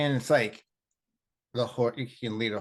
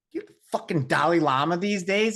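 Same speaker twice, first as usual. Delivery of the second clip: mock gruff jab; 7 semitones higher, 7 dB louder than usual. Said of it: "he's like".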